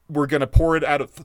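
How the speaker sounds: hiccuping mid-sentence; talking through hiccups. Real, not acted. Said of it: "I got the hiccups here".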